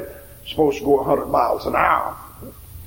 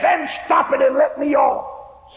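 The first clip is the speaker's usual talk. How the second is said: frantic demand, slower; 10 semitones higher, slower than usual. Acted. Old woman demanding the conductor let her off. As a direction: plead to be let off. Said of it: "She got frantic".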